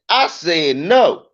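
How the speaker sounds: put-on slow, firm little boy's refusal; firm toddler no. Comic mimicking his son sounding like him. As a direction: say it slowly, unbothered. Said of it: "he sound like me".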